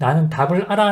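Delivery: normal talking voice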